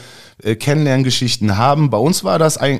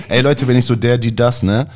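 laughing; 2 semitones higher, 3 dB louder than usual. Real, not acted. Giggling fit during recording.

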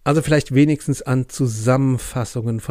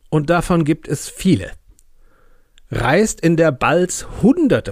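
hammy stage actor. Acted. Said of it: "voller theatralischer Gravitas".

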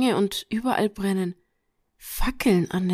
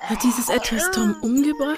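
tearful. Acted. Friend found dead.

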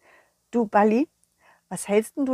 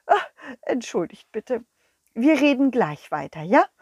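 lightly voiced embarrassed king; a hint of the giggly king; flustered king. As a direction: hurry off, apologising. King flustered, goes to toilet.

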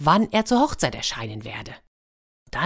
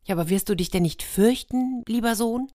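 worried mother; 6 semitones higher than usual. Acted. Mother worries about her son.

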